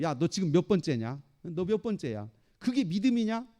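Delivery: lightly voiced taunt, lifting at the end; mocking. Devil questioning a believer who has fallen again, mildly mocking. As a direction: challenge them with a mild jeer. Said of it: "마귀가 와가지고 또 조롱해요".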